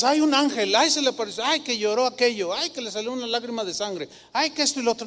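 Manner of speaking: mock the people who make up miracle stories; mocking gullible believer. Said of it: "no digas".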